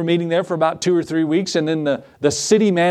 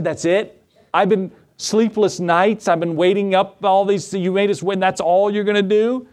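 playfully aggrieved, voice pitched up; mock indignant protest; 5 semitones higher than usual. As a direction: protest as if cheated of a big fight. Imagined protest at easy approval.

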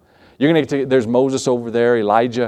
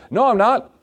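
insistent denial; 9 semitones higher than usual. Retold or imitated. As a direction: fire back the denial, pushed to the wall. Peter denies knowing Jesus again.

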